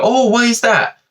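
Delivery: high, mock-innocent "why is that"; a sing-song customer asking why; mock puzzled customer. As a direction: ask it like a clueless customer. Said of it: "some people do is they go".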